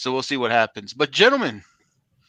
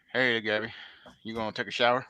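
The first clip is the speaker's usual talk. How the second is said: put-on Southern accent; 3 dB quieter than usual. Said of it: "your guys' Southern accents suck".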